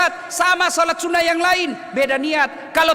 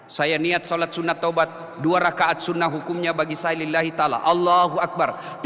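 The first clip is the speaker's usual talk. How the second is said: intention in Indonesian; 9 semitones lower, 4 dB quieter than usual. Shown as a demonstration. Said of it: "bahasa Indonesia saja".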